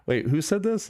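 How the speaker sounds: high, startled question; retold disbelief. Demanding who accused him, high and incredulous. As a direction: pitch it way up in disbelief.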